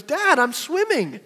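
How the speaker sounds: put-on high, slow child's voice; lightly voiced little girl; little daughter voice. Father voicing his daughter, a touch of child.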